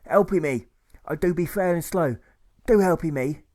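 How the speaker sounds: high, loud pleading character voice; hammed-up whimper for help; whimpering bandit. A narrator's reading. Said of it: "he whimpers".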